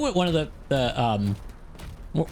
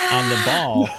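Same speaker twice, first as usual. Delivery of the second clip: sudden shout; 5 dB louder than usual. Acted. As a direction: jump way up and shout it. Describing ball's torment, sudden cry.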